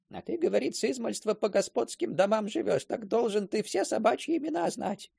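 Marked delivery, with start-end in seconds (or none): none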